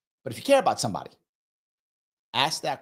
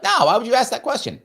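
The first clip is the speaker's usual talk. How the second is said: much higher and louder, mock offended; indignant quote; 12 semitones higher, 5 dB louder than usual. Friend asked if okay snaps back, offended. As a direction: play the defensive friend bristling. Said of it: "They go".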